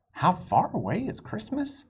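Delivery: put-on high, hopeful child's question; eager question. Amelia Bedelia hopefully asking her parents about Christmas. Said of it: "she asked".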